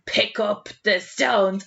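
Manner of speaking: retold shout. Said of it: "John Taylor started shouting".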